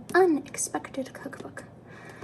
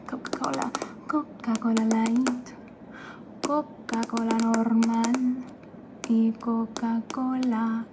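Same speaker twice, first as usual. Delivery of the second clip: slowed, punchy mock Coca-Cola chant; hammed-up Spanish soda ad, half sung; attempted low jingle voice. Parodying a Coca-Cola jingle for viewers, hammed-up chant. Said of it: "Oh, I couldn't do it that low".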